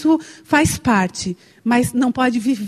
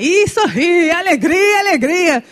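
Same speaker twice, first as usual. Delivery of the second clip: higher, louder, mock-cheerful; mock carnival joy; 5 semitones higher, 4 dB louder, slower than usual. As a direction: mimic partygoers' giddy glee. Mimicking carefree carnival joy.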